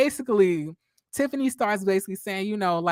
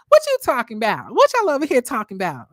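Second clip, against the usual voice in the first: louder, quick nosy question; nosy Melody imitation; 3 semitones higher, 6 dB louder than usual. Recapping the show, mimicking Melody barging in loudly. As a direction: barge in loud and fast.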